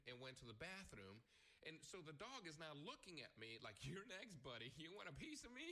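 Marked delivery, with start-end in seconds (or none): 3.8-5.7 higher, menacing tough guy. Retold or imitated. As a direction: play a threatening thug. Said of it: "Did he have, like, a New York accent".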